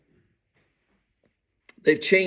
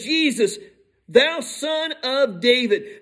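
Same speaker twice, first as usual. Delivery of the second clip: higher, drawn-out address; calling on Jesus; 5 semitones higher, slower than usual. Acted. Blind man addressing passing Jesus, calling out. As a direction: call out slowly and reverently.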